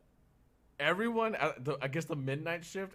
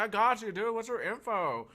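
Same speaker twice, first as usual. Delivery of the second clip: Cali dude; 9 semitones higher, 6 dB louder than usual. Retold or imitated. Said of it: "a Cali dude".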